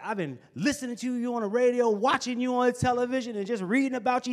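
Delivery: put-on high raspy old man. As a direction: rasp it like an old mentor. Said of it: "in his raspy voice".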